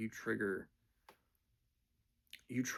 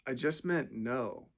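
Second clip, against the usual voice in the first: chill as a cucumber; slower than usual. Retold or imitated. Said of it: "just as chill as a cucumber".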